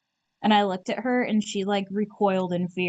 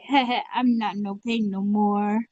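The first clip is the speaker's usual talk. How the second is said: giggly put-on voice; gleeful. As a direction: chuckle through the words. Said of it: "echoed in other voice".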